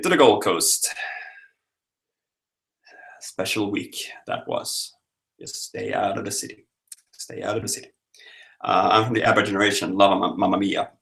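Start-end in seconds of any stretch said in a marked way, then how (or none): 3.2-7.9 hushed, soft, secretive aside; whisper. Pretend. Warning viewers about the city, in a whisper.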